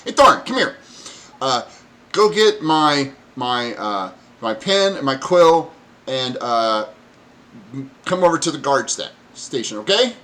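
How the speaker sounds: high, loud goblin orders; bossy goblin. Acted. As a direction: order the kobold around, squeaky.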